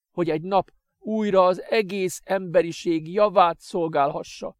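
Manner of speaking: high, loud, slow correction; lecturing master. Acted. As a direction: set him straight with authority. Adrian corrects him.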